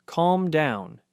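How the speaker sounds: a mild mock shout at the dog; mock yell. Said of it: "When you yell".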